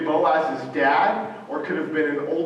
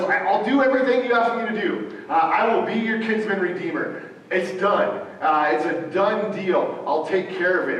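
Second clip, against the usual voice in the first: quick, higher and eager; excited; 4 semitones higher than usual. Retold or imitated. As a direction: burst out with eager promises. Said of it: "He gets excited and he".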